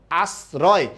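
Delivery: "আশ্রয়" said as "as-roy" with s, not sh; s sound. Shown as a demonstration. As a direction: clear s in "আশ্রয়". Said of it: "অবশ্যই সয়ের মতো হয়েছে".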